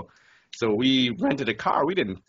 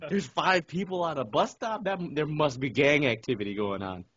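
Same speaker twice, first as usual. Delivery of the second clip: higher-pitched mock disbelief; mock alarm; 5 semitones higher than usual. Teasing friends over gang fears at a bus stop, mock alarm. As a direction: act scandalized by a harmless sight. Mocks the locals' gang worry.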